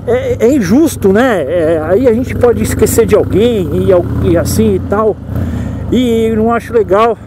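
muffled, talking inside a motorcycle helmet. Real, not acted. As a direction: voice boxed in by a helmet. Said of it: "Eu vou deixar o capacete aqui porque meu microfone tá aqui dentro".

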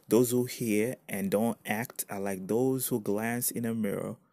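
slow, deliberate reading aloud; scripture reading. Real, not acted. Preacher reading a Bible verse to listeners, slow scripture reading. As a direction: read the verse out unhurriedly, phrase by phrase.

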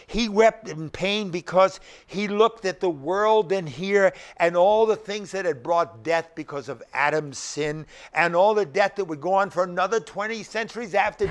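insistent sermon delivery; emphatic preaching. Real, not acted. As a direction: press the point home to the congregation. Preaches with force.

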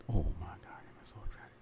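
breathless whispered thrill; excited whisper. Real, not acted. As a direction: whisper it as if too excited to say aloud. Thrilled about a secret trip.

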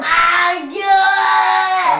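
loud crying protest; upset shout. Real, not acted. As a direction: yell it through tears, slowly. Child protests parent's help.

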